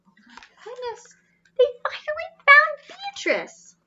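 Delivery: breathless hushed whisper; awed whisper. Acted. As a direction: whisper it like a wonderful secret. Narrator hushed amazement over the book.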